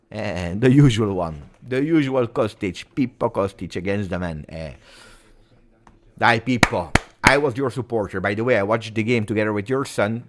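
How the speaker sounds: usual speaking voice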